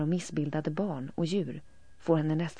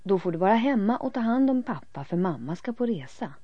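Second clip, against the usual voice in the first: stern parent; 5 semitones higher, 7 dB louder than usual. A narrator's reading. Parent laying down terms.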